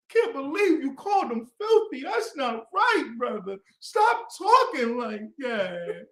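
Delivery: high, slow preachy mockery of a brother; mock pious scolding. Mocking a brother who scolds him for "filthy", high and preachy. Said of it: "mocking brother's scolding".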